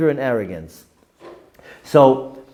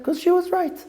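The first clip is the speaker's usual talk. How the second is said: exclaimed. Real, not acted. Punchline of the story.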